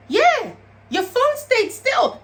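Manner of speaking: slow, high, sinister; slow menacing taunt. Retold or imitated. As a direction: let it land like a threat. Abuser reveals tracking her phone.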